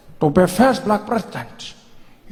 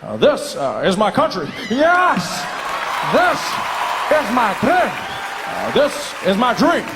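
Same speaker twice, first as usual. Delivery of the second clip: speech rehearsal; 3 semitones higher than usual. Shown as a demonstration.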